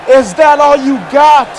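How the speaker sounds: loud taunt in a lightly imitated Scottish accent. Commentator quoting Sam staring down his rival, Scottish accent. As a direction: imitate a Scottish wrestler's challenge. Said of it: "In his Scottish accent".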